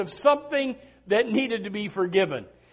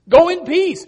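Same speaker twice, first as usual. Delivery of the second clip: "Go in peace" called out louder and higher; ringing proclamation; 8 semitones higher, 9 dB louder than usual. Shown as a demonstration. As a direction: proclaim "Go in peace" to the whole room.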